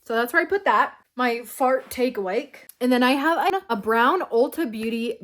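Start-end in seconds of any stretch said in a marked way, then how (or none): 1.2-2.7 fart take awake, said slowly on purpose; joke mispronunciation. Shown as a demonstration. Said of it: "I almost said fart take awake".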